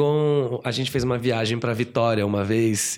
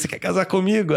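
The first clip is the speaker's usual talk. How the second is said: retold proposal; 7 semitones higher, faster than usual. Repeats proposal, higher.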